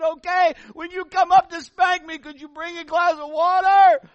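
put-on high, loud little boy yelling back; child shouting. Little boy calling to his parents for water, high and loud. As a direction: shout the request like a sly kid.

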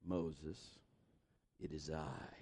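very low, hushed divine voice; deep, quiet voice of God; the Lord. Acted. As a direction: intone it softly and solemnly, deep down. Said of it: "you just wanna hear the Lord".

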